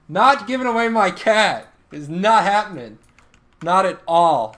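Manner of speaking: loud, firm protest; emphatic refusal. Real, not acted. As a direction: put your foot down loudly, punching each phrase. Refusing to give away cat.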